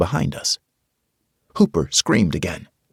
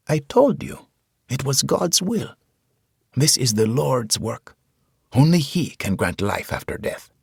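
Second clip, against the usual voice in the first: put-on gentle preacher, higher, with a Hispanic accent; 7 semitones higher than usual. A narrator's reading. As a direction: soothe the soldier, Hispanic accent. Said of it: "He had a Hispanic accent".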